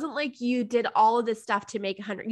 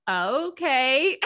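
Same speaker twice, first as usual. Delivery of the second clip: casual okay; 3 semitones higher, 3 dB louder than usual. Retold or imitated. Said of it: "and you were like".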